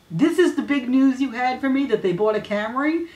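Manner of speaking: half-hearted retold exasperation; mock disbelief. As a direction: act stunned that this is the big news. Andy incredulous at trivial news.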